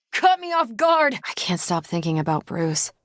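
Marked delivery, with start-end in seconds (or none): 0.1-1.1 much higher, startled cry; jolted by a surprise hit. Acted. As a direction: caught off guard, startled. Surprised by an attack.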